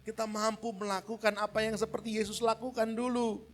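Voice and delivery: rising to a loud, high, rousing call; eager congregation. Acted. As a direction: sound like believers fired up. Congregation voiced realizing. (jemaat bersemangat, makin keras dan tinggi)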